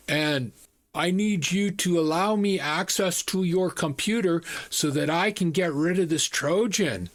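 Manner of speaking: lightly put-on Indian accent; imitated Indian accent. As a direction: scam caller with a rough Indian accent. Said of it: "It was an Indian accent".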